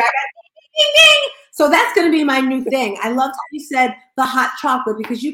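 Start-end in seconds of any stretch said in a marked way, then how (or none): 0.5-1.3 high, loud "ding, ding" bell imitation; playful award bell. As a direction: ring it out like a prize bell, high and excited.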